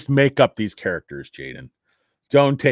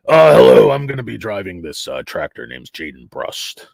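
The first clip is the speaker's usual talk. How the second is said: loud hello, then settle into a low rasp; Jaden Brust; 3 semitones lower, 5 dB louder than usual. Acted. Tractor driver introducing himself, raspy smoker's voice. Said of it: "his voice that I'm doing has him smoking non-filtered cigarettes".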